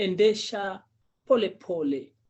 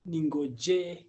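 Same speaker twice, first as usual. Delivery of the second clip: very slow, spaced-out words with pauses; slow teaching model. Shown as a demonstration. Teacher repeating a new Swahili phrase for a learner, slowly. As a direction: spell out the meaning slowly, word by word.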